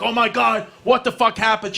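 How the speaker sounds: mock-shocked outburst. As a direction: react in horror at the blood. Shocked at mom's bloody knee.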